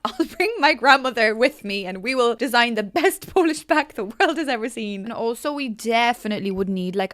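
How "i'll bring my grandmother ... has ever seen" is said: laughing through an excited pitch; bubbly laughing pitch. Real, not acted. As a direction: giggle while dreaming up the pack. Excited joke about bringing grandmother.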